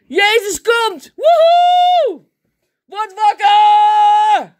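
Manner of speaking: very high, loud, drawn-out whooping shout; shouting from rooftops. Acted. Woman joyfully proclaims Jesus to everyone, shouting from the rooftops. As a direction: holler it out to wake everyone up. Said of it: "Die het van de daken schreeuwt".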